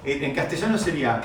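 normal talking voice

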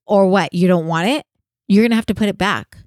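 loud scolding cashier voice; mock angry cashier. Cashier scolding a customer, loud and irritated. Cashier confronting her at register.

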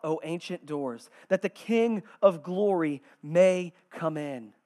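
measured, emphatic reading of a psalm; scripture reading. Acted. Preacher reading the psalm to the congregation, emphatic proclamation. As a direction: proclaim each phrase with weight, falling at the ends.

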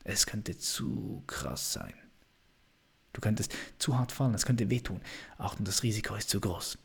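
lightly voiced doubting inner voice holding you back; destructive inner voice. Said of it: "die destruktive Stimme". (leise, warnende destruktive Stimme, nur angedeutet)

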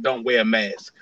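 low mock rapper voice; a rapper. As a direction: drop low, imitating a rapper. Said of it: "because the rapper said".

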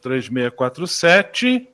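slow, quiet, spelled out digit by digit while writing; repeating the phone number back slowly to write it down; slow note-taking repeat. Real, not acted. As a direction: read the number back slowly as you jot it down. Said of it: "deixa eu tomar nota".

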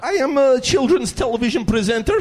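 high mock Russian deadpan; hammed-up Russian footballer, proud; mock Russian accent, straight-faced; Arshavin impression. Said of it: "I could do Arshavin".

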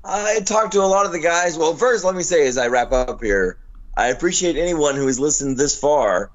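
hoarse, worn-out voice; rough voice after no sleep; smoker's rasp. Real, not acted. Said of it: "due to my smoker's voice".

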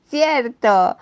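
bright, pleased agreement; happy. Acted. Bunny realizing he can keep mum in his scarf, happy. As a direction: say it with sudden happy understanding. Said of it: "dijo feliz el conejito".

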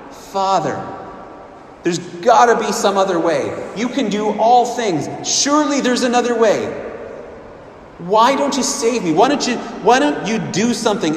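desperate pleading. Acted. Jesus in the garden pleading with his Father, anguished. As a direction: beg for another way, urgently. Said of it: "he's confused and praying out".

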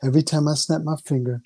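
slow, coaxing hypnosis patter; hypnotist voice. Acted. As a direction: lull her in like a stage hypnotist. Hypnotist keeps building the trance.

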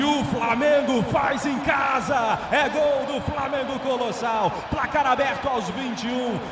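roaring Brazilian goal call; explosive goal commentary. Acted. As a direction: shout the goal to the whole stadium.

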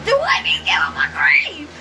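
loud exasperated demand; shouting. Real, not acted. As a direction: yell it at him. Scolding friend for feeding grape.

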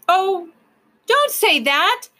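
high, drawn-out desperate plea. A narrator's reading. Ben begging the proc not to send them back, desperate. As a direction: cry it out high and slow, pleading. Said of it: "Ben cried desperately".

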